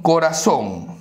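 "corazón" with its proper stress on zón; stress on last syllable. Shown as a demonstration. Teacher showing students the tonic syllable, final stress on "corazón". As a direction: land on the end of "corazón", co-ra-ZÓN. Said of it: "la mayor fuerza de voz".

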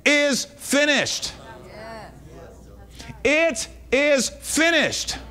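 forceful exhortation with weighty, drawn-out commands; emphatic preaching. Real, not acted. Preacher tells church to stop saying it, emphatic preaching. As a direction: preach it as an urgent correction.

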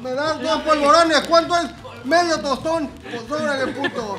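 put-on old lady voice. Acting old lady buying.

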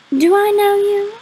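high, drawn-out disdainful question; snooty. A narrator's reading. Girl snubbing a classmate she knows, snooty. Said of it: "She was just being a bitch".

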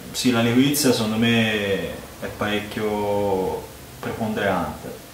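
speaking while sniffing beer; muffled by glass rim; talking into a glass. Real, not acted. Seen 2: Right man talks while sniffing, glass rim at mouth 7-13s.

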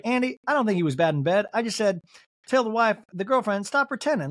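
lightly mocking Southern accent; Mary. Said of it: "doing her as a Southern lady".

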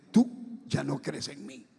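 slow, softened, low spirit voice; Sarabanda. Retold or imitated. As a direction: draw the accusation out quietly, as the spirit said it. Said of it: "Así me dijo".

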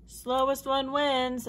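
a high, slow cry of a sly turtle; cried out. A narrator's reading. Franklin crawls in last, crying out the new rule high and slow. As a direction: stretch it out high and slow, pleased. Franklin cries out, changing rules.

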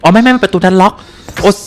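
high, loud and hurried; panicked. Real, not acted. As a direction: scramble as the monster closes in. Panicked chase in game.

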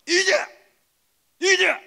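high, very loud unit slogan; soldier's salute cry, punched out; military salute shout. Shown as a demonstration. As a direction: bark the army greeting, full force. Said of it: "이기자 부대 인사는".

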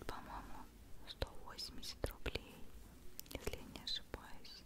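usual speaking voice

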